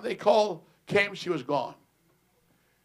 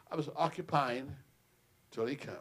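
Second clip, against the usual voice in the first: quiet reply; 2 semitones lower, 5 dB quieter than usual. Retold or imitated. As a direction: say it softly, humbly. Pastor's quiet answer.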